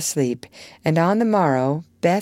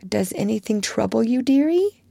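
tenderest tone; 6 semitones higher than usual. Acted. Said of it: "said in her tenderest tone".

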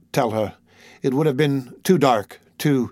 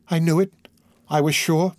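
higher, triumphant anguished exclamation; raised voice of anguished certainty; exulting cry; 5 semitones higher than usual. A narrator's reading. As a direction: cry out in pained triumph, pitched up. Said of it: "by an exulting and terrible cry".

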